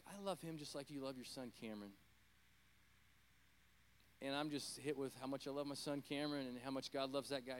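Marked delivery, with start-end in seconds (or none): 0.1-1.9 softer, tender and sincere; gentle voice of God. Retold or imitated. God gently speaking to the preacher about his son. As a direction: say it quietly, like a loving father. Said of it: "God's like".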